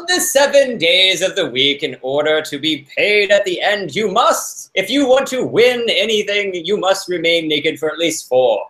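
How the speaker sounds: lightly hammed-up Old English accent. Host mock-reading a houseguest's contract, Old English accent. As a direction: read it as a pompous Old English decree. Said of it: "like, Old English accent".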